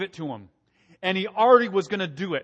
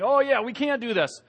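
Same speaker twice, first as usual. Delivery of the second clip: whiny, higher mock grumbling; mock complaining; 5 semitones higher than usual. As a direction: whine it like the grumbling crowd. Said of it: "complaining and murmuring and saying".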